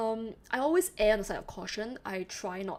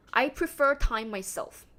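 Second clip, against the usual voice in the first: polite corpo phrasing; 2 semitones higher, 5 dB louder than usual. Retold or imitated. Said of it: "You say".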